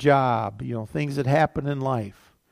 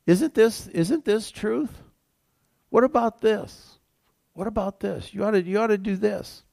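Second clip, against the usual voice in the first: Satan tempting; 8 semitones higher than usual. Retold or imitated. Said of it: "he twists the word of God".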